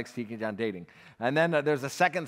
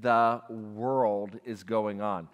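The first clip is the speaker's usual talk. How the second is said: awed disbelief; 5 semitones lower, 4 dB quieter, much slower than usual. Retold or imitated. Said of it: "I'm like".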